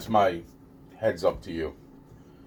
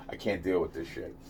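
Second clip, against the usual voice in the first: much softer, lower; exasperated; 6 semitones lower, 11 dB quieter than usual. Real, not acted. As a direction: sink into a tired mutter. Repeated exasperated line.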